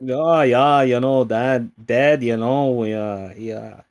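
loud mock-Minnesotan, easing off at the end; exaggerated Minnesota accent, mostly loud; bad Midwest accent. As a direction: ham up a Midwestern dad. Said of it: "Midwest accent".

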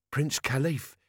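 name the visitor matter-of-factly; informative Carrot. Acted. Carrot answers Vimes's whispered question.

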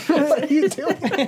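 sputtering after a spit take; laugh-choking on a mouthful; choking on a drink. Real, not acted. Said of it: "It was more of a choke".

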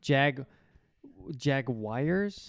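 Jaguars broken up and drawn out as jag-wires; overcareful Jaguars; slow Jaguars. Shown as a demonstration. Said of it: "Yeah, but slow down".

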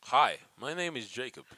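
American accent that still sounds English; attempted American accent. Shown as a demonstration. Actor copies the host's line, English-sounding American accent. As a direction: introduce yourself in a failed American accent. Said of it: "It still sounds like English to me".

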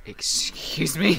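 slow, whispered, laughing Excuse me; mock offended through a laugh. Retelling their reaction to the odd word, mock offended. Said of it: "both you and I unanimously were like".

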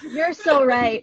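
slow, dreamy "so right"; fawning agreement. Pretend. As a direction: agree adoringly, drawn out. Echoes the mock agreement.

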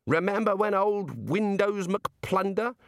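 a hint of a hearty old don reminiscing; blustering old wizard. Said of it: "They say things like".

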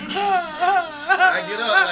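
excited high cry. Retold or imitated. Excited retelling of wild moment.

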